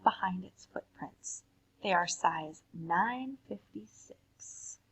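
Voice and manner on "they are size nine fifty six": slow spooky whisper; hushed slow whisper. Acted. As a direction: breathe it like a scary secret. Spooky punchline reveal.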